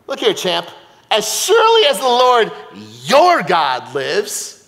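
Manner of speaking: feisty Jersey widow, emphatic; Jersey accent. Acted. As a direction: tell him off in a Jersey accent. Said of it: "I broke out into a Jersey accent".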